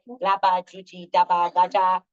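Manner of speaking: gibberish demo. Shown as a demonstration. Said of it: "you love this gibberish".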